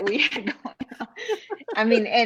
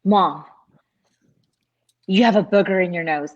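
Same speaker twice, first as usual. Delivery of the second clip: put-on loud child; 6 dB louder than usual. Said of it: "he was like".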